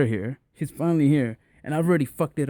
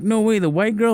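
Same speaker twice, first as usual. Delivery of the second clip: high, louder retold amazement; excited disbelief; 9 semitones higher, 5 dB louder than usual. Homie hearing who the date is, excited disbelief. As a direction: imitate a pal stunned by big news.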